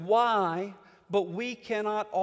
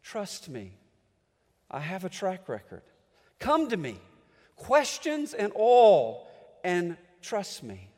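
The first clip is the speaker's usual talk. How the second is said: tender voice of God. Acted. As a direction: gently draw them in. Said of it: "God keeps telling us".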